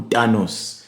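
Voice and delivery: Thanos in a Zulu accent, tanos. Shown as a demonstration. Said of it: "That's how you say it in, in, in the Zulu accent".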